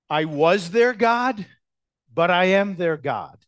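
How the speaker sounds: I was their God, then I am their God, with was and am stressed slowly; preacher contrasting the words was and am, slow and stressed. Shown as a demonstration. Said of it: "the way it's spoken".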